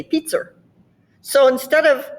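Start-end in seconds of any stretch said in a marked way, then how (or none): 0.0-0.5 Boston 'pizza' ending in an R, 'peets-er'; Boston accent. Shown as a demonstration. Showing how they say it, Boston accent. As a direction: add a Bostonian R to the end of 'pizza'. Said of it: "they put R on that one".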